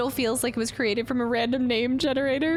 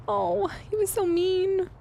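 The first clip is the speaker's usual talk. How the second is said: mock pout; 7 semitones higher, slower than usual. Real, not acted. Pouting over rude shopkeeper.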